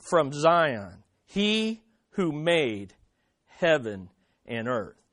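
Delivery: slow, measured reading with pauses between phrases; scripture reading. Acted. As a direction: read the verse out solemnly, phrase by phrase, falling at the ends. Reads the scripture passage aloud.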